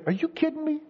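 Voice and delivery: high-pitched incredulous scolding; exasperated parent. Acted. Mom scolding kids asking for a treat, incredulous. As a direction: build to an outraged, loud question.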